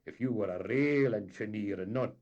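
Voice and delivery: indignant captain. A narrator's reading. Captain lecturing the engineer, loud and indignant. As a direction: swell with wounded pride.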